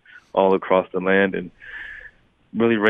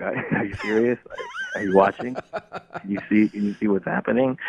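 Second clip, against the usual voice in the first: incredulous; 3 semitones higher than usual. Retold or imitated.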